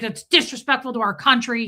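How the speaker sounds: mildly indignant imitation; retold anger. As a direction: imitate an offended veteran's scolding. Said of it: "This guy was really mad at me".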